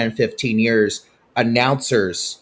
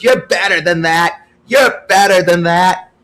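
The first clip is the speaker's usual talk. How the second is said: scolding umpire; 8 semitones higher, 7 dB louder than usual. Retold or imitated. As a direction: chide him like a disappointed umpire. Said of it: "And he goes".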